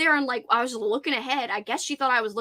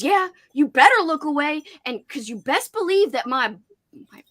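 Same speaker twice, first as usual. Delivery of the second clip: mock threat; 2 semitones higher, 4 dB louder than usual. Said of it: "She goes".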